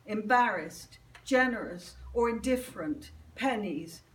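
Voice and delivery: deliberate recital, each phrase set apart by pauses; poetry reading. Acted. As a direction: read it as a litany, landing each item separately. Reads own poem aloud.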